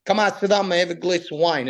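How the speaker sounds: lightly voiced Italian-accented father; dad's broken English. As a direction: imitate an Italian dad offering hospitality in broken English. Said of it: "my father would be like".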